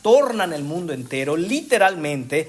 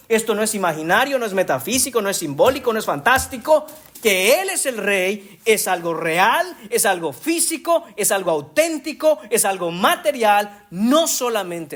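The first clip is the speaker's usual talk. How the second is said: higher and higher through the list; rising fervor; 4 semitones higher than usual. Real, not acted. Preacher proclaiming Christ's kingship as real, rising fervor. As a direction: build each item up with fervor.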